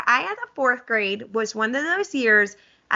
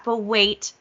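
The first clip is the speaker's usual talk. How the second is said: hammed-up TV salesman pitch; infomercial voice. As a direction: sell it like a late-night ad. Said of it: "I sound like an infomercial".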